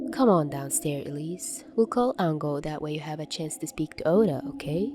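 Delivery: muffled, heard through a closed door; as if behind the door. A narrator's reading. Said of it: "Mori's muffled voice came through the door".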